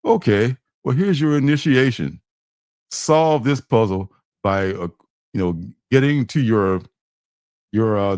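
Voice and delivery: lightly voiced robot announcer; a hint of a machine voice; robotic voice. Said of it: "this robotic voice says".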